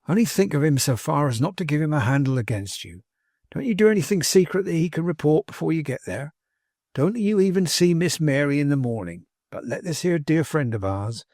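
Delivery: lightly folksy servant giving earnest advice; a hint of homespun caution; lightly voiced plain-spoken manservant. Manservant cautioning his master, lightly folksy and earnest. Tapley advises Martin.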